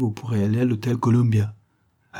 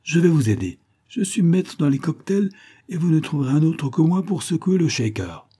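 boastful excitement; 8 semitones higher than usual. A narrator's reading. Harry se vante, enthousiaste.

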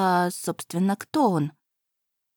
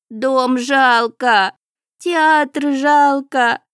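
higher, louder lament, stretched out at the end; loud wailing; 6 semitones higher, 6 dB louder than usual. A narrator's reading. The house spirit wails loudly at the cat over the lost estate. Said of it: "громко завывал незнакомый голос".

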